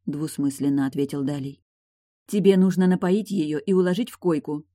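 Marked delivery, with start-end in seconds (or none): none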